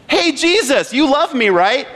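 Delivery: put-on butter Him up like a kid asking a favor; pleading believer.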